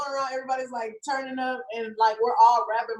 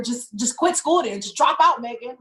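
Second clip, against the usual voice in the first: imitating a fed-up grandma's scolding; mad grandma; 2 semitones higher, 3 dB louder than usual. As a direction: act out grandma telling you off. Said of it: "she was so mad".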